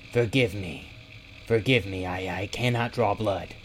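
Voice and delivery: mildly frightened, faltering apology; stammering plea. A narrator's reading. Cowering owlbear apologises to his friend, stammering. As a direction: falter and repeat while begging forgiveness. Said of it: "he stammered".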